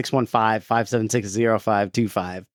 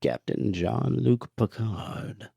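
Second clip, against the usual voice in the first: very slow, quieter hint of the Emperor; 4 dB quieter, much slower than usual. Cohost reading patron names as the Emperor. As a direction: linger over each word like an evil overlord. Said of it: "Let's do it in Emperor voice".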